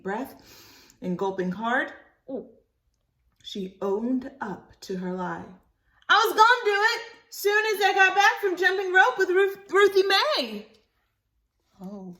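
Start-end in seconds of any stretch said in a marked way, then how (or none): 6.1-10.7 put-on much higher, louder little girl confessing; child voice. Libby confessing her lie to Mama, high childish. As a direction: blurt it out like a caught kid.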